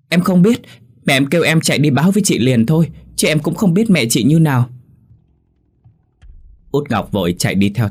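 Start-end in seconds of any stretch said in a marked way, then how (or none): 0.1-4.7 put-on high, louder, agitated boy's voice; flustered panic. A narrator's reading. Neighbour boy sent running by his mother, flustered. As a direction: blurt it out in a fluster.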